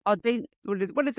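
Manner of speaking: stumbling over the word, cutting it off; tongue-twisted. Real, not acted. Host fumbling for the name of the coaching business, tongue-twisted. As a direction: trip on "Auda-" and break off. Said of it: "I'm tongue twisted now".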